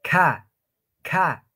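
KA with a light puff of air after the K. Shown as a demonstration. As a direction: demonstrate a gentle, airy KA. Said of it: "Más suave, ¿no ve?".

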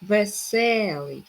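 "Веселий" slow, with stretched се; "Веселий", leaning on the middle syllable; stress on second е. Shown as a demonstration. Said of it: "Наголос на другу е".

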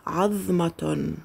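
عظمة said very slowly, the middle ظ held; careful slow عظمة; slow model word. Shown as a demonstration. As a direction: spell out عظمة slowly for the class. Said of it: "هيا بنا".

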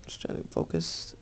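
soft whisper while concentrating. Real, not acted. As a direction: murmur it under your breath, focused. Squinting to read tiny print.

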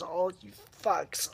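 breathy whispered slow insult; hissed whisper. Real, not acted. Ranting at forum users, a slow bitter whisper. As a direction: drop to a venomous whisper, slowly.

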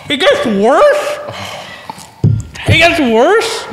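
strained, pained from pepper burn; numbed throat. Real, not acted. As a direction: talk through a burning throat. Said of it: "It hurts my throat".

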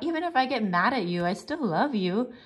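tender. Acted. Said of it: "Penny cried out".

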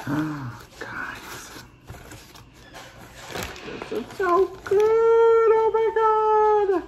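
squealing with delight, very high; blissful. Real, not acted. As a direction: swoon over the taste, slow. First bite of mukbang food.

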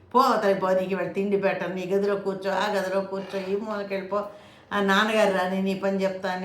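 a loud mock scolding mother shooing the child away; scolding mother yelling at the crying child; angry mother. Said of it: "ఇలా రకరకాలుగా తల్లులు చేస్తారు".

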